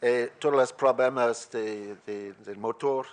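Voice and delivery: Spanish with an American accent; English speaker's accented Spanish. Real, not acted. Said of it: "mi español europlayer".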